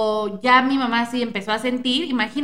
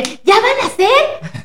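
teasing sing-song; 10 semitones higher, much slower than usual. Retold or imitated. Friends teasing the pregnant friend.

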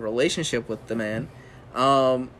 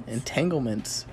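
titillated; 3 semitones lower, 5 dB quieter than usual. Pretend. Repeated slow and low.

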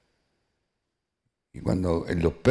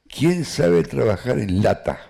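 Nazi calling out; 6 semitones higher, 4 dB louder, slower than usual. Retold or imitated.

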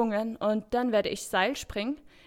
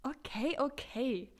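soft giving in; 7 dB quieter than usual. Acted. Megan giving in after being told off.

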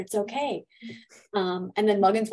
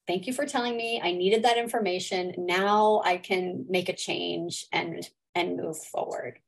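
calm and settled. Retold or imitated. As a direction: settle into it, unhurried. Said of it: "settle into that, like".

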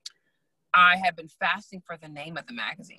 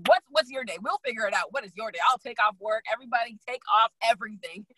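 frantic eagerness; 4 semitones higher than usual. Acted. Acts out frantic eagerness to schedule.

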